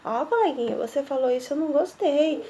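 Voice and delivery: quiet kind complaint to a classmate; soft polite complaint. Shown as a demonstration. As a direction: say it gently and quietly.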